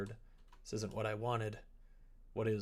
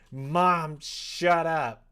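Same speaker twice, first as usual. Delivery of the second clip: higher, louder mock snap at mom; 6 semitones higher, 11 dB louder, much slower than usual. Real, not acted. Gamer snapping back at the game's mom, loud. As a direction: tell her off, half joking.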